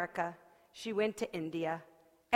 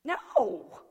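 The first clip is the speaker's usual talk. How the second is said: emphatic no; 8 semitones higher, 4 dB louder than usual. Acted. Woman refuses the tea.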